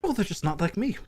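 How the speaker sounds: lightly voiced self-regarding lord, starting high; a hint of pompous self-justification; vain coin lord. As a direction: play a vain lord explaining the obvious.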